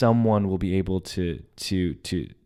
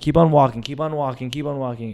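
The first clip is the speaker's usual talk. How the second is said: high-pitched repeated urging, loud at first; retold urgent urging; 6 semitones higher, 3 dB louder, faster than usual. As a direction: act out urging her onward. Urging girlfriend on while running.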